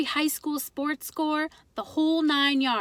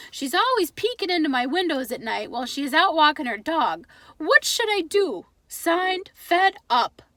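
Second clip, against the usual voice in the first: put-on higher, accented, louder read-aloud voice; Pop reading aloud; 4 semitones higher, 3 dB louder than usual. Father reading the advice column to his wife, relishing it.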